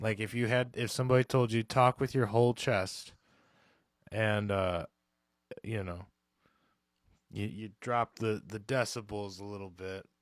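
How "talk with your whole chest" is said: ordinary talk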